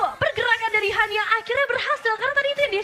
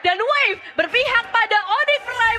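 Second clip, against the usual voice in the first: excited play call; 3 semitones higher, 3 dB louder than usual. Real, not acted. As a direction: call the wipe with rising hype. Caster calling a teamfight wipe.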